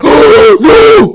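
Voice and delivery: high, loud shocked "No!"; mock horrified shout. Brothers hearing dad say ass, high horrified shout. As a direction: yell it like scandalised kids. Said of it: "they freaked out".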